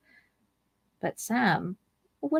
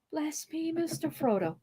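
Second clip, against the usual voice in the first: soft, hushed whisper; 9 semitones higher, 10 dB quieter than usual. Acted. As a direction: breathe it so no one hears. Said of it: "he ventured a whisper".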